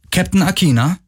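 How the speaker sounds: put-on high, sing-song girl's voice; soft high-pitched inquiry; soft, melodic voice. A narrator's reading. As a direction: ask sweetly in a high, melodic lilt. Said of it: "eine weiche, melodische Stimme".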